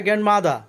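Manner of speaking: গ্র্যান্ডমাদার said with an open "mada" ending; silent final R. Shown as a demonstration. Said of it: "লাস্টে আর এর উচ্চারণ হবে না". (গ্র্যান্ডমাদার, শেষের র উচ্চারণ ছাড়া)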